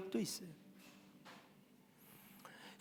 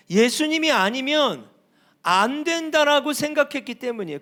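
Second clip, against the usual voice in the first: raised, emphatic sermon delivery; forceful preaching; 2 semitones higher, 5 dB louder than usual. Real, not acted. Preacher tells congregation only Jesus would do, forceful preaching. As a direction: preach it with mounting insistence.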